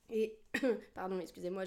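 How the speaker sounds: choking on a drink. Real, not acted. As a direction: cough and recover. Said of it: "je m'étouffe".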